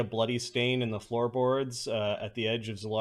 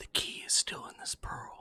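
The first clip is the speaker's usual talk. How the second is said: close, hushed, secretive whisper right at the ear; 8 dB quieter than usual. Voicing a character who whispers into a listener's ear: whispering into the ear. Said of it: "Zalara whispers to you".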